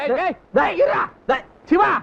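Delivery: shouting to stop a fight. Acted. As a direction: yell at them to stop. Breaking up a street brawl.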